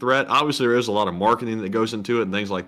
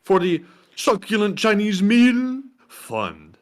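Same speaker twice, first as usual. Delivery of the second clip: quoting the donation; 10 semitones higher, 3 dB louder, slower than usual. Retold or imitated. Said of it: "And they said".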